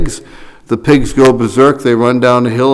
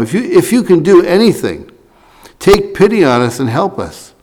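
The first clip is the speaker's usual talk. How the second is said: begging father; 7 semitones higher than usual. Retold or imitated. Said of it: "The father is begging him for help".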